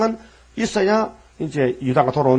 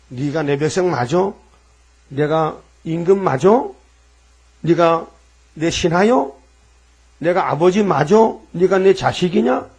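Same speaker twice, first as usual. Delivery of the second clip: challenging God. Acted. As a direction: press each question like an accusing master. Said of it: "이렇게 따지는 거예요". (이스라엘을 따지는 하나님 목소리)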